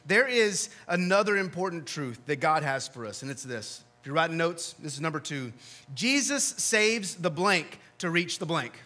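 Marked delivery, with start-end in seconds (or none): 5.9-8.8 slow fill-in-the-blank reading. Shown as a demonstration. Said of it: "And yes, they're left blank".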